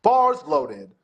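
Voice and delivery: loud, high meet announcer call; boisterous announcer voice. Shown as a demonstration. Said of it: "I do a very, like, boisterous announcer voice".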